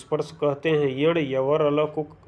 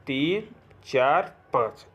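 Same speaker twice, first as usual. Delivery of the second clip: slow counting; much slower than usual. Shown as a demonstration. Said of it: "अब इसको करिए एक".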